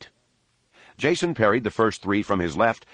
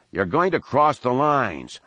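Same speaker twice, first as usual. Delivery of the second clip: yelling; 5 semitones higher than usual. Acted. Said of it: "Han yelled".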